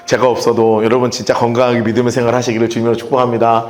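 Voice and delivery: a hint of a pastor saying farewell; farewell sermon tone. Pastor bidding the church a last goodbye, low and solemn. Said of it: "어투가 바뀌기 시작해요".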